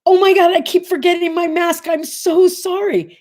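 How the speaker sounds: high, breathless mock-girlish apology; flustered young girl. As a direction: play the scatterbrained girl who forgot her mask. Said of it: "she goes".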